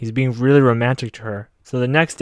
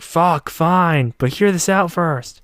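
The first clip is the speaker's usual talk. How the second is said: higher-pitched, irritated giving in; mock exasperation; 5 semitones higher, 3 dB louder, much slower than usual. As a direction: give in grudgingly, pitched up. Imitating her exasperated giving in.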